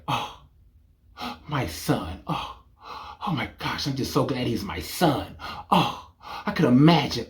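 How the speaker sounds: soft, swooning mother voice; softly cooing proud mom; mock doting mom. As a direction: coo over your son dreamily.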